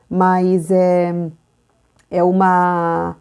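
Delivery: normal talking voice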